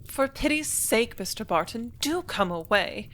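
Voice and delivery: high, slow, pleading exclamation; hammed-up plea to hurry him along; a society girl urging the manager to come to luncheon, drawn out and high; impatient cry. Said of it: "Helen Fuller cried at last".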